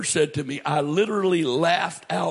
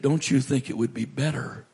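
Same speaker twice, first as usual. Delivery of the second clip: low, soft retold voice of God; gentle question, sinking lower and softer; sweet voice; 7 semitones lower, 4 dB quieter than usual. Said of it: "this sweet voice says to me".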